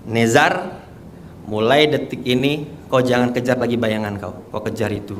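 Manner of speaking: lightly voiced figure, low and softening; understated, hushed message from a dream; solemn dream figure. Dream figure counselling Nezar to stop chasing shadows, solemn.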